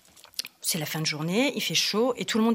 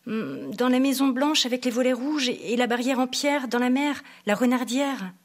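put-on a light, slightly higher child voice, drowsy; little boy describing a dream house as he dozes; lightly voiced child, half asleep; sleepy little boy; 4 semitones higher, 3 dB louder than usual.

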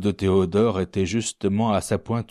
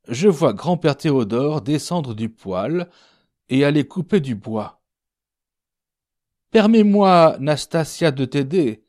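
high, animated cook's voice; cook telling her dream; 5 semitones higher, 5 dB louder than usual. Acted. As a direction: recount the odd dream in a raised voice. (cuisinière qui raconte, voix haute et animée)

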